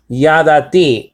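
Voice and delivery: "Yadati" said slowly, syllable by syllable, ya-da-ti; slow Hebrew word. Shown as a demonstration. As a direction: spell out "Yadati" slowly for a student. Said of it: "the word for no is yada".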